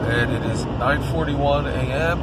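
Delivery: stuffy, blocked-nose voice; congested. Real, not acted. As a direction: speak through a congested nose. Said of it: "you can probably hear in my voice that I'm congested".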